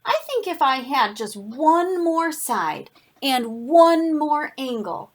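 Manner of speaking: slow, emphatic storybook wish; lightly voiced character making a request; wishful triangle. Triangle pleads for another side.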